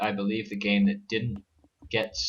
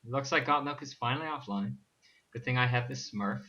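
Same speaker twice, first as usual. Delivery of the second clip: calming voice; 4 dB quieter than usual. Pretend. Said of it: "this is my calming voice".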